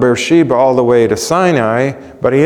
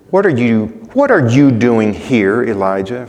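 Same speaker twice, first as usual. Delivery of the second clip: scolding. Retold or imitated. God scolding Elijah as some readers hear it, sharp rebuke. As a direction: scold him for being there. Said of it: "a tone of displeasure here, scolding, even anger".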